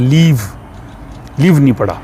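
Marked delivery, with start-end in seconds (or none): 0.0-0.4 लीव with a long stretched ee; long Swedish i. Shown as a demonstration. Teacher models long i in liv for beginners. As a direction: hold the ee in लीव. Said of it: "इसको लंबा पढ़ा है".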